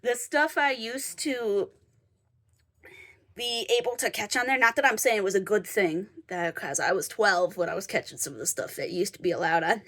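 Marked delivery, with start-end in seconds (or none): 0.0-4.6 sniffly, blocked nose. Real, not acted. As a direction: talk through a stuffy nose. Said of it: "sorry, I'm sniffly".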